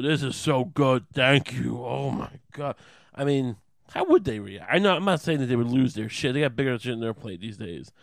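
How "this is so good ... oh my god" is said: savoring thanks. Pretend. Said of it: "and go".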